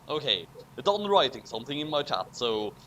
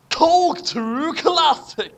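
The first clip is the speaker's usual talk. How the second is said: higher, slower, proud reveal; triumphant announcement; 11 semitones higher, 6 dB louder, slower than usual. A narrator's reading. Narrator unveiling the drink, proud and slow. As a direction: unveil it like a product.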